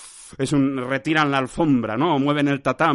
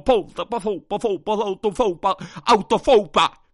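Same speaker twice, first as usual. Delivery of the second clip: building to loud, higher bursts; shouting nonsense word; 4 semitones higher, 5 dB louder than usual. Real, not acted. Podcaster blurts nonsense with few minutes left, building to shouting. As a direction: belt out the made-up word, louder each time. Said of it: "Estoy gritando, estoy gritando".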